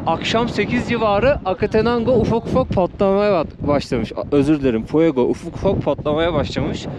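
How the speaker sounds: lips stiff from the cold; numb frozen face. Real, not acted. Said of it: "yüzüm dondu, dudağım kıpırdamıyor".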